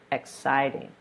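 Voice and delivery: "exciting" with weight on its second syllable; second-syllable stress. Shown as a demonstration. Teacher restating the stressed syllable, "exciting" stressed on CIT. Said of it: "stressing the second syllable of the word".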